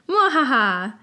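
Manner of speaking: bright creature evil laugh; proud little pet cackling; cheerful cackle. Acted. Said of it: "the puffskin said cheerfully".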